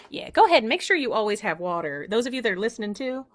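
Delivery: lightly voiced puppet co-host; hint of a Southern accent; Proxy. Puppet tells listeners to have water, lightly accented voice. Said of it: "Proxy has her own voice".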